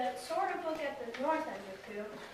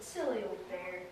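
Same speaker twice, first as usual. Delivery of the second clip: loving; 6 semitones lower, 3 dB quieter than usual. Acted. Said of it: "in such a loving voice".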